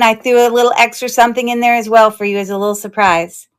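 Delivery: excited. Real, not acted. Excitedly greeting a buyer.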